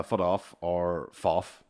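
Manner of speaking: FOOT OFF with a T for K, shrunk to FOFF; child's mispronunciation. Retold or imitated. Dad quoting daughter's speech tic, mispronounced. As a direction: say "foot off", then run it together as "foff". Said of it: "her tick is fuck off".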